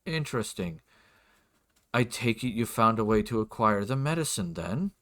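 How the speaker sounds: lightly voiced probing lord; a hint of a reserved, formal nobleman; softly, politely press for an answer; lord's voice. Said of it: "do my best for his voice".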